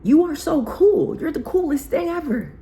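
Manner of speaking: shower her with hyped compliments; gushing praise. Retold or imitated. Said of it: "I'm like".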